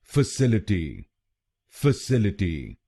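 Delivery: फैसिलिटी with सिल stressed. Shown as a demonstration. Teacher showing the stress on the second syllable. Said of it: "दूसरे शब्दांश पर... जोर डालना है".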